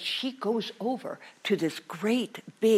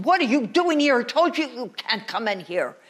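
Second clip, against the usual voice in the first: louder, higher scolding; old witch scolding the sneaking boy; 3 semitones higher, 5 dB louder than usual. Acted. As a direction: catch him red-handed and scold.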